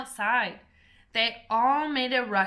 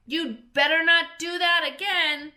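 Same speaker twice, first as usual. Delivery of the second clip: higher, louder warning shout; 8 semitones higher, 7 dB louder than usual. A narrator's reading. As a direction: shout them off from inside. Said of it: "She shouted out".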